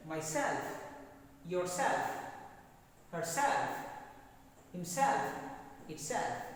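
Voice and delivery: "Myself, yourself, herself, himself, itself", each with force on "self"; stress on second syllable. Shown as a demonstration. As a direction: drill each word leaning on SELF. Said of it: "See where the extra force".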